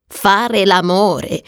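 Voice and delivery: slow, unimpressed echo; drawn-out sceptical question; scornful echo. Acted. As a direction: repeat it slowly in a normal pitch, scoffing. Agnes echoing the phrase scornfully.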